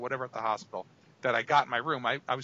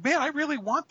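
eager craving; 13 semitones higher, 3 dB louder than usual. Retold or imitated. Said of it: "and I'm like".

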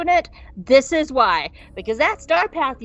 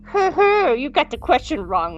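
mocking rival; 3 semitones higher than usual. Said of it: "he's just all like".

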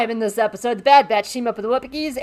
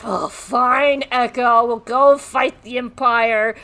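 grudging assent; 3 semitones higher, 4 dB louder, much slower than usual. Retold or imitated. Acting Hunter giving in.

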